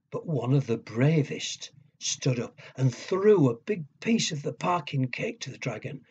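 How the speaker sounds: put-on lively storyteller voice for kids; reading to children. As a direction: build suspense like bedtime story.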